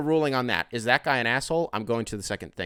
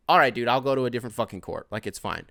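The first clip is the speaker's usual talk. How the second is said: a bit pissed; faster than usual. Retold or imitated. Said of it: "I said it just like that 'cause I was a little bit pissed".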